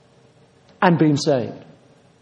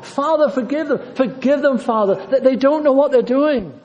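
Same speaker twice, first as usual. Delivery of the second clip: higher, anguished plea to the Father; Jesus pleading from the cross; 6 semitones higher than usual. Acted. Preacher voicing Jesus on the cross, higher anguished plea. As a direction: cry it out as the dying Christ begging forgiveness. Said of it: "listen to Jesus hanging on that cross".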